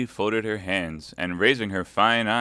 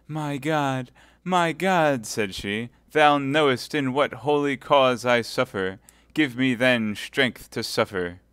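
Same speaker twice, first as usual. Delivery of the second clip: high, louder pleading prayer; fervent prayer; 6 semitones higher, 7 dB louder, slower than usual. Acted. Milady praying aloud on her knees. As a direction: beg heaven in anguish.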